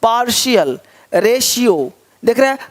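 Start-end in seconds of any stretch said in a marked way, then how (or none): 0.0-0.8 "पार्शियल" as par-shial; "पार्शियल" with sh in the middle, falling. Shown as a demonstration. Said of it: "यहाँ श हो रहा है".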